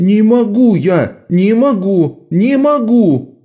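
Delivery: high, loud, slow panicked refusal; high loud panicked wail; hysterical boy. A narrator's reading.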